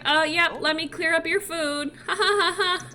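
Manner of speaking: high voice into a forced laugh; change the subject, then fake-laugh it off; acted nervous dodge. Mulan clears food to dodge questions, nervously.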